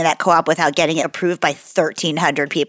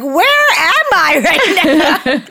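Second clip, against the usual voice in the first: confused waking; 10 semitones higher, 3 dB louder, much slower than usual. Retold or imitated.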